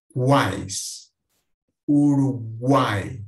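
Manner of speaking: "Quais", "Uruguai" loud and drawn out, three vowels in one glide; tritongo. Shown as a demonstration. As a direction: stretch the "uai" in "Quais" and "Uruguai" as one syllable. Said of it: "três vogais numa mesma sílaba". ("Quais", "Uruguai" com as três vogais juntas e alongadas)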